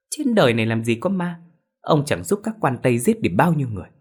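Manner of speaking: a high, doubting wife; suspicious doubt. Acted. Wife doubting her husband's ghost tale, high and suspicious. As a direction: question him as if he's lost his mind. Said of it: "mụ Hường nghi hoặc".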